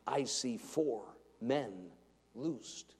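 hushed awe. Acted. King's quote again, hushed.

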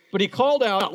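called out loud like a prophet; booming prophet's call; proclaimed. Shown as a demonstration. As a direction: announce it to the city. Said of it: "listen to this".

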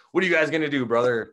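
loud wrestler-style challenge; Hulk Hogan. Retold or imitated. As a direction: lightly imitate a wrestler taunting the room. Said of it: "like, Hulk Hogan stuff".

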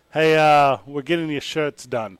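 hammy New England dockworker; rough harbor-town accent. Retold or imitated. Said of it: "What was that voice?".

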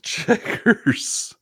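whispered checkers. Shown as a demonstration. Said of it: "say checkers".

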